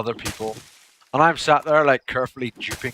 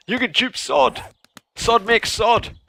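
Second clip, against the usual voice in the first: giddy awe; 9 semitones higher, slower than usual. Real, not acted. Awed at duping sod.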